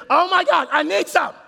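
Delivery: high, loud desperate outcry; loud, high yell of a needy husband. Retold or imitated. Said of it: "you need to remember she's yelling".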